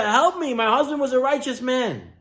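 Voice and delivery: high-pitched retold plea; crying out. Widow begging Elisha for help, high crying-out voice. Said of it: "she was crying out to Elisha".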